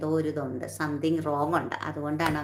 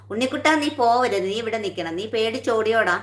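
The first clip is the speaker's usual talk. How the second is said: teasing call-out; 4 semitones higher, 3 dB louder than usual. Real, not acted. Calling out teasing commenter.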